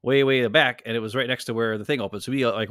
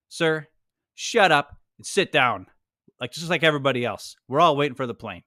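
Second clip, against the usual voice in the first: firm scolding. Retold or imitated. Old desk agent scolding passenger.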